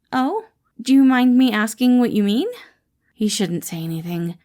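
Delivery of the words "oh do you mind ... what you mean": higher, louder cheerful boss greeting; bright caring boss checking in; Patton voiced. Boss greets his employee Remus, cheerful caring voice.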